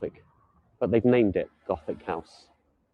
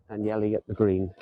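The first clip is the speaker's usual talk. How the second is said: put-on Italian accent. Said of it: "Just trying my Italian accent".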